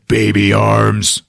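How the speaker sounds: drawn-out Hulk taunt; Hulk calling out. Retold or imitated. Hulk calls after departing Thor, slow taunt. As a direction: stretch it slowly into a lightly voiced brute jeer. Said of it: "the Hulk calls after him".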